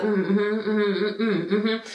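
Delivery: slow, laughing, half-listening mm-hmms; mock someone not really listening; dismissive mm-hmm. Mocking the office manager who wasn't listening, dismissive. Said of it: "sounded like she was just like".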